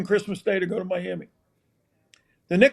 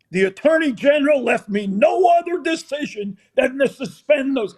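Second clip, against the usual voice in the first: coach's raised announcement; 5 semitones higher than usual. Retold or imitated. Coach announcing to upset team.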